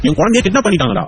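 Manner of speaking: high, stunned question; shocked disbelief. Acted. Father learns his child was kidnapped, high shocked question. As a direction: react in shock, pitch leaping up.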